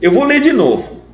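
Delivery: a son begging his dad to listen; lightly voiced child insisting; pleading son.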